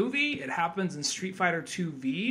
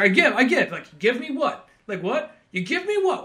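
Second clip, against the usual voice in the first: angry threatening; 7 semitones higher, 5 dB louder than usual. Retold or imitated. Revy threatening guy, acted quote.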